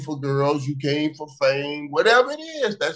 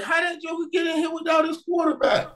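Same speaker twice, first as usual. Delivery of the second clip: laughing mock question; 14 semitones higher than usual. Retold mocking line about Dre.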